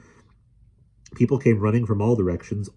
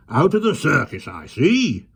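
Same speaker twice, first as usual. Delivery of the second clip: grinning; 9 semitones higher, 5 dB louder, slower than usual. A narrator's reading. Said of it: "he grinned".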